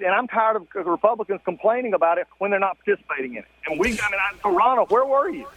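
muffled, echoey phone call; like calling from inside a tunnel; bad phone line. Real, not acted. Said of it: "You sound like you're in a tunnel".

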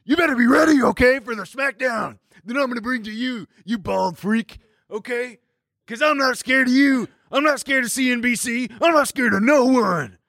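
mock wrestling trash talk; puffed-up smack talk with a mock shout; false bravado. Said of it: "talking some smack to my boy".

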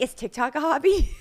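lightly mock your own teen-like answer; fifteen-year-old. Wife replaying answer to doctor, like a teenager. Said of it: "it sounded like a fifteen-year-old".

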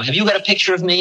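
a gentle hint of the old teacher's voice; light imitation of an old Indian holy man; old guru asking. Old guru questions narrator.

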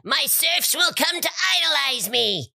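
grand lordly declaration. Pretend. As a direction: proclaim it like a lord. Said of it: "strict but fair lord".

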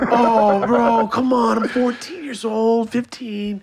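high, loud exasperated plea; exasperated protest. Retold or imitated. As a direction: whine it out like a caught kid. Retelling outraged teen self.

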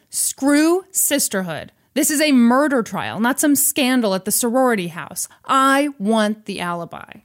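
retold angry telling-off, emphatic; mildly pissed off. Callahan demanding the alibi from Elle, mildly angry. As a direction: lay down the law with a touch of anger. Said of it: "So Callahan was pissed".

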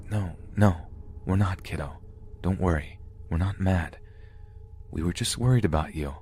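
soft, soothing grandparent; calm a worried child quietly; softly spoken comfort in short phrases; gentle reassurance. A narrator's reading.

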